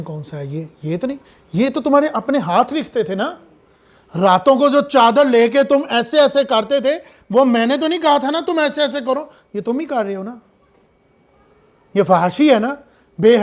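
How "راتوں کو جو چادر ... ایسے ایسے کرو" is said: rebuking sermon. Acted. Preacher rebuking sinners.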